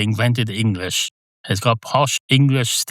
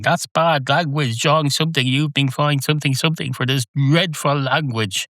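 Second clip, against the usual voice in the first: lightly high tannoy voice scolding; a hint of a robotic fine notice; mock police announcer; 5 semitones higher than usual. Imitating the announcer fining swearing, lightly raised pitch. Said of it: "this fella correcting them".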